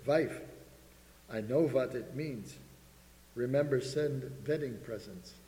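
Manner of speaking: Eastern European husband, V for W; thick Eastern European accent. Acted. Husband announces his inspiration to his wife, thick Eastern European accent. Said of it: "In his thick Eastern European accent".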